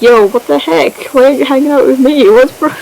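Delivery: mild indignant protest. Retold or imitated. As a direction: imitate a put-out friend. Acts the neglected friend protesting.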